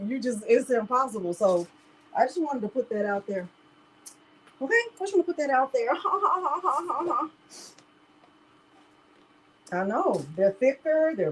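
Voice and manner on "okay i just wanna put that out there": laughing. Real, not acted. Laughs at her own aside.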